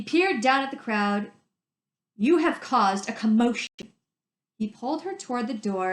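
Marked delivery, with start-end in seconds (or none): 2.1-3.9 stern scolding. Acted.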